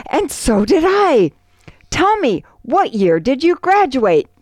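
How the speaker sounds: light up as if finding a long-lost twin; really excited. Acted. Irishman at the bar discovers a shared school, excited and high. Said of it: "gets really excited and he says".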